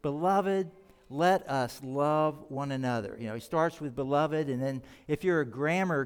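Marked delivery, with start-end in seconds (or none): 0.0-3.2 sweet gentle reading. Shown as a demonstration. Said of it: "in such a sweet, gentle, loving way".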